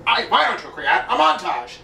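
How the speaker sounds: lightly voiced cartoon villain; a hint of a gruff cartoon bad guy signing off; Strong Bad voice. Shown as a demonstration. Vlogger demoing his Strong Bad impression, lightly voiced. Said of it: "I can do strong bed pretty well".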